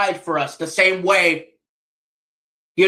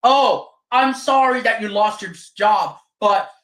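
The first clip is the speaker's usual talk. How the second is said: mock sympathy; 3 semitones higher than usual. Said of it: "I'ma do the exact same shit to you".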